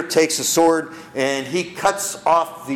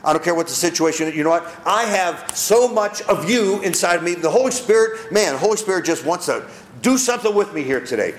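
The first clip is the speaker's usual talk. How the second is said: brash bold promise; 2 semitones higher than usual. Acted. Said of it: "Are we brash enough".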